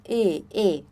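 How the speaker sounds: E said with flat lips, no pout; plain e without rounding; unrounded e. Shown as a demonstration. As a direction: show the wrong sound, lips spread. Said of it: "Sem o biquinho não vai funcionar".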